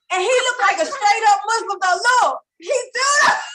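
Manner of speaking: loud and high, laughing while shouting. Real, not acted. Laughing loud to friends about his headscarf. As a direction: crack up as you shout the story.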